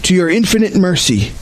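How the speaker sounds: measured corporate prayer, deliberate phrasing; formal liturgical prayer with pauses; solemn confession prayer. Real, not acted. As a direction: lead the congregation in confession, unhurried.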